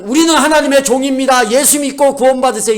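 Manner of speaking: high, loud evangelistic cry; mock street preaching. Missionary crying out on the mission field, mock street preaching. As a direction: call out like an overeager missionary. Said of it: "이렇게 선교지에서 외치는 것이".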